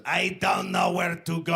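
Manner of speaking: imitated old foreign lady, heavy and halting; plaintive mock old-lady voice; hammed-up helpless granny. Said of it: "and she goes".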